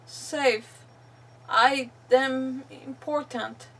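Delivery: deliberate, phrase-by-phrase reading; reading a captive's diary. Acted. Captive's farewell to the troop, deliberate read-aloud voice. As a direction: read the final words with long pauses.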